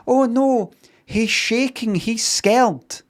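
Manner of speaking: very high-pitched mock distress; hammed-up high worried cry; mock alarm. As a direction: act out a horrified squeal of pity. Voicing horror at scared lion cub.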